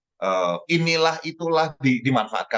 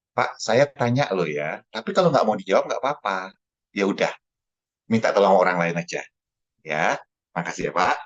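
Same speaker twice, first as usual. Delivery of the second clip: smiling calm; 6 semitones lower than usual. Acted. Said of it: "senyum aja".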